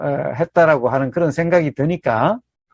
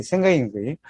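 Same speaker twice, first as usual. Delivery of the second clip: quieter, lower repeat of 생각인 거예요; soft echo; 4 semitones lower, 5 dB quieter, faster than usual. Shown as a demonstration. Teacher quietly echoing his own point to the audience. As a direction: let the point settle, softly. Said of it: "이거는 생각인 거예요".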